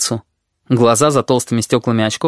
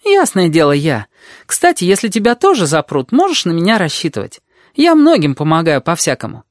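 put-on high-pitched, lively girl's chatter; confident red-haired girl; 7 semitones higher than usual. A narrator's reading. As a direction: chatter on high and sure of yourself. Voices the red-haired girl, boasting.

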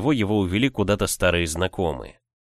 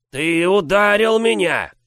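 squeaky indignant giant; 10 semitones higher, 5 dB louder, slower than usual. Acted.

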